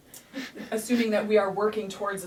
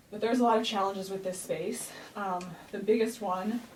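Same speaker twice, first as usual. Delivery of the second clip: out of breath. Real, not acted. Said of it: "I'm so out of breath".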